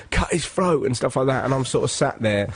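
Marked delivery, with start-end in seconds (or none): 0.1-0.9 crowd shouting. Retold or imitated. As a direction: imitate an egging-on onlooker. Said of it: "people started shouting out".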